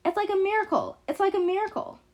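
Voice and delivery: put-on high-pitched, gleeful old woman; excited high exclamation, repeated; cackling. A narrator's reading. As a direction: cackle it out in delight. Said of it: "She cackles over and over again".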